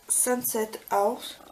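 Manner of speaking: English shade name in a French accent; French accent on the English words. Real, not acted. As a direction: say "Sunset House" slowly with a French accent. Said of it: "désolé pour mon accent".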